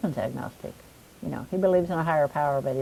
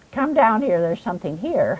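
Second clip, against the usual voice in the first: loud, high, booming, urgent bellow; 5 semitones higher, 5 dB louder than usual. Retelling how her husband called her downstairs: imitating a bellow. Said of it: "my husband bellows at me".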